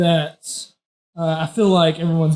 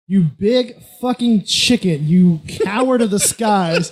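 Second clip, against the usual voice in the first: taunting yell, raised pitch, little extra volume; mock yell; 6 semitones higher than usual. Player taunting the giant bird, mock yell. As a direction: hurl insults up at a monster, drawn-out and higher. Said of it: "I, uh, yell at him".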